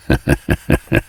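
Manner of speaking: brief rolling chuckle; short self-effacing chuckle. Acted. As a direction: chuckle in quick little bursts. Smith laughs after paying respects.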